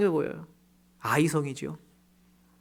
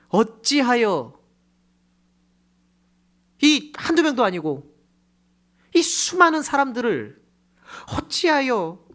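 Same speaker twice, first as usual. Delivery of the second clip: slow, higher and louder wailing plea; anguished cry; 6 semitones higher, 5 dB louder, slower than usual. Acted. Joshua crying out to God in despair, loud. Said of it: "탄식".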